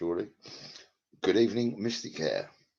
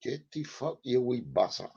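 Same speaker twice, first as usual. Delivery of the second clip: higher-pitched, badly faked Scottish accent; mock Scots, pitched up; 6 semitones higher than usual. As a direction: put on a rough Scottish accent. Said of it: "I don't do accents".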